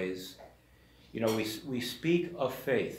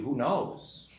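louder, scoffing, with a duh tone; exasperated retort; 3 semitones higher, 5 dB louder than usual. Retold or imitated. Peter scoffs back at Jesus, louder. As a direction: Peter brushing off Jesus' question.

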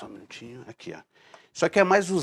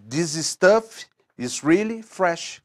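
synthesized voice; 2 semitones higher, slower than usual. Retold or imitated. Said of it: "É uma voz sintetizada".

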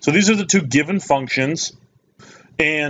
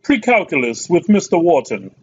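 higher-pitched mock accent of no clear country; put-on foreign accent; 6 semitones higher, 3 dB louder than usual. Maths teacher welcoming viewers to a precalculus video, put-on accent. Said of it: "I don't know why I'm doing that accent".

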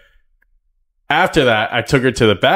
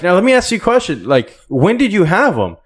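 high mock interrogation; 9 semitones higher, 3 dB louder than usual. Grilling the employee, pitch up.

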